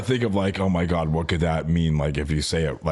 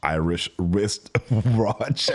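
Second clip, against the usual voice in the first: laughing attempt; much slower than usual. Real, not acted. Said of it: "until I can get it perfectly".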